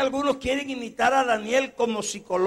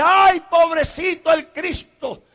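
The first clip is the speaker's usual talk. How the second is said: imitating sentimental churchgoers, louder; mock pity; 9 semitones higher, 9 dB louder than usual. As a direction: mimic people pitying Jesus. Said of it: "la gente que dice".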